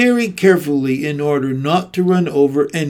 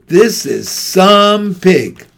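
grand fair announcer. A narrator's reading. Loudspeaker presents the famous pig to the crowd, grand announcer. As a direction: proclaim it to the whole grandstand.

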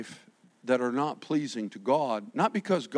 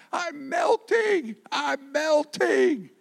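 melting; 13 semitones higher, 4 dB louder, much slower than usual. Retold or imitated. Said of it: "the old King James says".

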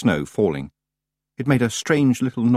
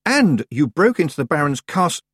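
high, indignant scolding; indignant accusation; 7 semitones higher, 3 dB louder than usual. A narrator's reading. Tiffany accuses Rob about the Baron's castle, indignant. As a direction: accuse him, pitched up.

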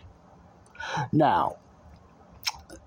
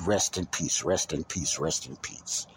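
repeated by rote, fading lower and softer; mock rote repetition; 4 semitones lower, 4 dB quieter than usual. Imitating people who just go with the flow, rote and fading. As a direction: trail off as if imitating automatic replies. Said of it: "just going with the flow".

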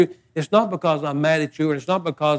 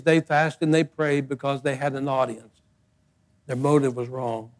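quiet and solemn; 4 semitones lower, 8 dB quieter than usual. Real, not acted. Solemn lowered point.

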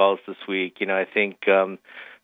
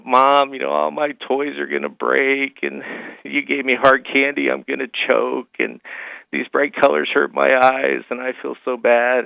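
put-on whiny crying kid; 4 semitones higher than usual.

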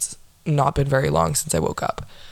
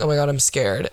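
dry joke; 3 semitones lower than usual. Shown as a demonstration. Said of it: "very dry".

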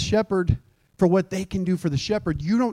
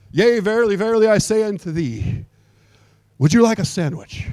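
lightly hammed-up old-English offer; pompous thee-and-thou for a plain offer; mock King James; 4 semitones higher than usual. Preacher joking about King James speech over a sandwich offer, lightly hammed. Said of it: "we just don't talk like that".

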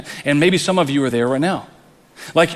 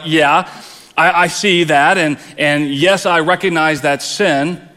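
mock eager admission. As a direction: play the congregant who readily owns up. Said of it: "you're probably like".

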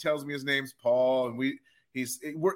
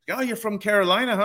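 put-on drunk stranger; 8 semitones higher, faster than usual. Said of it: "he's like".

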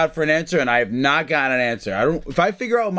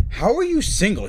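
incredulous nurse; 5 semitones higher than usual. Retold or imitated. Acting out the baffled nurse.

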